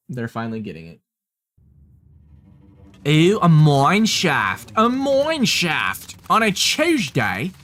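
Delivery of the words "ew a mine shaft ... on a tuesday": loud, slow, much higher hammed-up British accent; exaggerated British accent, slow and shrill. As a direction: ham up a posh British voice. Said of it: "whisper in the British accent".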